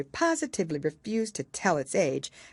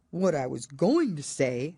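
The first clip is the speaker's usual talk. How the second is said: offended. Acted. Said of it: "in an offended tone".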